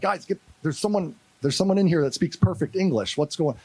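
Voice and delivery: mock-astonished report to the guys; retold amazement. Soldier to team on hearing English, amazed. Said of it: "And I'm like".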